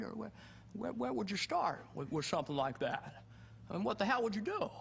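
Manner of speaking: high, halting, stammering movie-star voice; Jimmy Stewart. Acted. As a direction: stammer in high-pitched, swooping disbelief. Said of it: "Jimmy Stewart from Rear Window".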